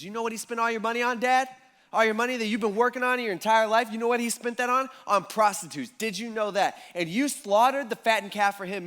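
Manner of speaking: indignant complaint. Retold or imitated. Older son's angry complaint to dad.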